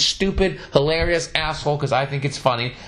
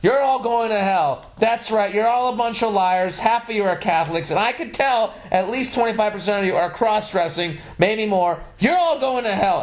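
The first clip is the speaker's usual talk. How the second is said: higher, hammed-up street preacher rant; mock preacher yelling; 6 semitones higher than usual. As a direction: bellow it like a mock doomsday preacher. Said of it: "I just started yelling at the top of my lungs".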